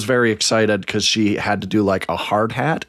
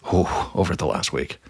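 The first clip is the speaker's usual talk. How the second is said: sexy voice; 5 semitones lower, 5 dB quieter than usual. Pretend. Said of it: "Why did you say it like that?".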